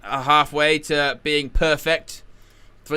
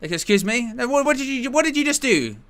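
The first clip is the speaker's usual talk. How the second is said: incredulous; 8 semitones higher than usual. Retold or imitated. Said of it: "You go".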